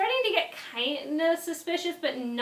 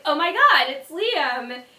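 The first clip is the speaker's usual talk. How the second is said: excited; 5 dB louder, slower than usual. Retold or imitated. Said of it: "I got really excited and I'm like".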